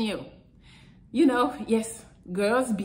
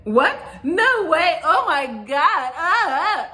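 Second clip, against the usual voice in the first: put-on excited girl; 5 semitones higher, slower than usual. Girl talking to her crush, mock excited squeal. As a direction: gush like she's thrilled. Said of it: "when she start talking to you".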